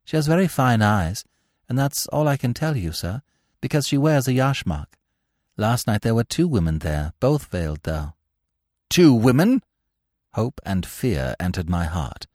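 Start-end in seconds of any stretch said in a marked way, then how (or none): 0.0-8.1 lightly voiced informant, slightly higher; a hint of a deferential witness, pitched up a little. 8.9-9.6 higher, rising, surprised echo; taken aback, pitch leaping up; startled question. Acted. Startled echo of witness's news.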